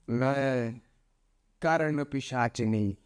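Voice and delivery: name yourself like a dark spirit; a hint of an ominous spirit; spirit announcing herself. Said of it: "तो वो बोलती है".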